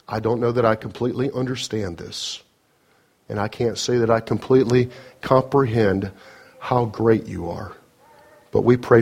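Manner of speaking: earnest, steady pastoral prayer; closing prayer. Acted. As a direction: pray it sincerely over the congregation.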